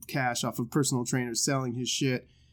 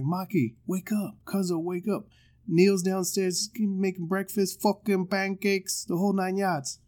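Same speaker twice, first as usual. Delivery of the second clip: lightly acted, higher wake-up call; imitating the cousin; 5 semitones higher, slower than usual. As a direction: mimic a movie line, drawn out at the end. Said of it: "he's like".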